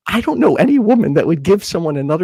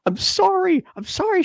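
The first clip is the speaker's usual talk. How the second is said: apologetic. Retold or imitated. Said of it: "So I'm like".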